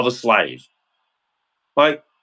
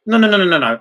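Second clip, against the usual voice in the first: louder, higher string of no's; emphatic no's; 4 semitones higher, 4 dB louder, faster than usual. Retold or imitated. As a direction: shut them down with a run of no's. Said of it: "I'm sitting there just going".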